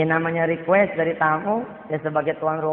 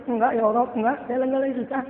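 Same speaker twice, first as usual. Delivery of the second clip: higher, mock-tearful denial; tearful self-comfort; 6 semitones higher, faster than usual. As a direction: fight back tears while insisting you're fine. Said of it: "Sambil nangis tuh dia". (pura-pura tegar sambil menangis)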